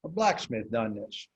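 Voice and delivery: slow, lightly voiced old farmer; a hint of the old farmer, taken slowly; old farmer's talk. Repeating the old farmer's words in a slow, light imitation. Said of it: "That's how he talked".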